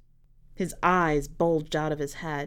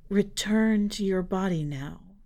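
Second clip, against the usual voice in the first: commanding. Acted. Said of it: "with an air of command".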